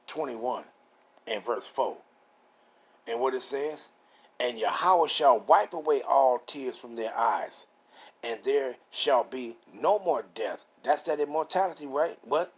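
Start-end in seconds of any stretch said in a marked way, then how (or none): 4.4-10.6 slow, measured Bible reading; deliberate, phrase-by-phrase preacher's reading; scripture reading. Real, not acted. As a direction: read the verse out with drawn-out key words. Reads scripture aloud.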